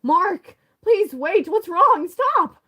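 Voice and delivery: high, loud, pleading cry; soft feminine plea. Acted. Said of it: "I made him sound feminine".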